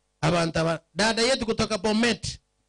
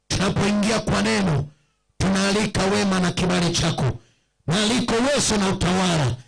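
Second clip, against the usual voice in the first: prayer. Acted. Pastor prays on air.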